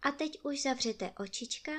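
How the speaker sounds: very soft, hushed bedtime wish; tender goodnight. Real, not acted. Narrator wishing the listening children goodnight. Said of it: "bedtime goodnight to children".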